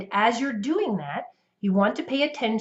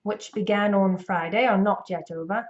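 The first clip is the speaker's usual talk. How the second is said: put-on learner's imperfect British accent. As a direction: parrot a British newsreader, not quite convincing. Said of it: "not doing a great British accent".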